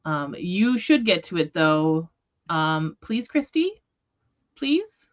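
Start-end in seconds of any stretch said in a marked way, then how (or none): 2.5-5.1 high, drawn-out begging please; pleading. Real, not acted. Host begging Christy to read the book, high pleading voice.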